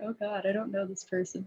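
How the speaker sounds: high, anxious, nervous, fretting character voice. Voicing Tobias as he grows uneasy about meeting her: nervous, in character. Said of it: "his more nervous tendencies where he's like".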